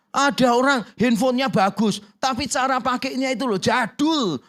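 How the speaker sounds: ordinary talk, nothing marked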